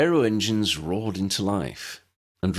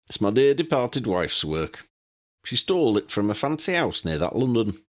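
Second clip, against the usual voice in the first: put-on a higher-pitched, chatty old wizard; lightly voiced eccentric old man, fond and wry; old pilot Pelicus; 4 semitones higher than usual. Old pilot showing guests his plane, lightly voiced old man.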